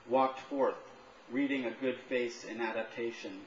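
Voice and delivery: measured literary reading, phrase by phrase; poetry reading. Acted. Poet reads own piece to an audience, measured recital. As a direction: recite it evenly to a listening room.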